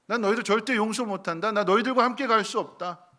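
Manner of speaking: loud, high furious refusal; angry outburst. Acted. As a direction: snap at the people. Angry Moses refusing people. (백성에게 화내며 소리치는 모세)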